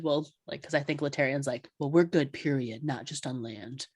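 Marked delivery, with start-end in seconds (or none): 1.8-3.9 very serious. Retold or imitated. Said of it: "Very serious".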